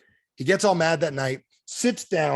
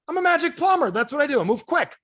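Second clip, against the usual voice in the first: high, loud cocky boast; cocky plumber; 12 semitones higher, 3 dB louder than usual. Retold or imitated. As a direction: brag like a cartoon hero.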